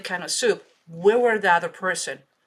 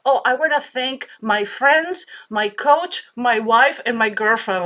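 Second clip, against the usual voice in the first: higher, louder gushing thank-yous; mock thank-you speech; 3 semitones higher, 4 dB louder than usual. Athlete thanking his people on national TV, gushing. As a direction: ham up a winner's thank-you list.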